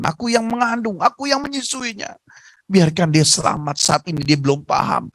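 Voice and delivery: a touch of crying in a mother's prayer; tearful prayer. Acted. Beaten mother praying for her son, mildly tearful. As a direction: plead with God through mild tears. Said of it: "ibunya menangis".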